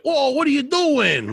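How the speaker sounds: high startled whoa at a thief; mock alarm. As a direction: playfully jump in shock, pitched high. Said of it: "And I'm like".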